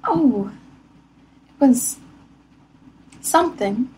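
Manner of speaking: mock English lady Rebecca, lightly voiced; English accent as Rebecca. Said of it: "the English lady?".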